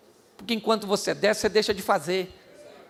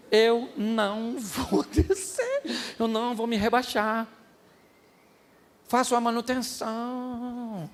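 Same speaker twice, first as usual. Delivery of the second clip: slow firm resolve; 2 semitones higher, slower than usual. Acted. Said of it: "O negócio é o seguinte".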